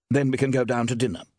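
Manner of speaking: quick, pressing to move on; urgent. Acted. Steve hurrying the men off to dinner, urgent. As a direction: hurry them along, a touch urgent. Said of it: "a note of urgency in her voice".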